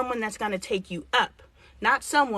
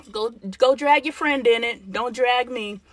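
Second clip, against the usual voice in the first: louder, push the parent away; firm loud refusal; 6 dB louder than usual. Pretend. Telling a divorced parent not to drag you in, loud and firm. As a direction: shut it down firmly, raising the voice.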